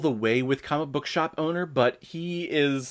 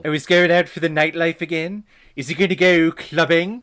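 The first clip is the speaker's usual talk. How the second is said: mock commentary; 4 semitones higher, 6 dB louder than usual.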